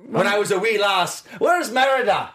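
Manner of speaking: playful Scottish lass; Scottish accent. Pretend. Cohost showing off her first go at a Scottish accent. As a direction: put on a lilting Scottish accent. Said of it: "I've never done Scottish before".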